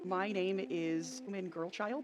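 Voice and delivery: put-on slow, flat little girl voice; slow child voice. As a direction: spell out the name like a strange kid.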